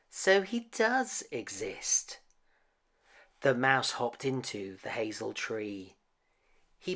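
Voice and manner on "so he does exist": amazed. Acted. Child amazed at the mouse.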